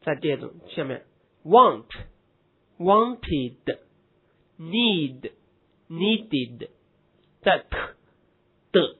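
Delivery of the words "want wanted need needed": "wanted" and "needed" ending in a separate "id" syllable; slow drill, "id" clearly added on "wanted", "needed". Shown as a demonstration. Teacher drilling endings after t and d, "needed" ending in id. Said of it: "音之后读id".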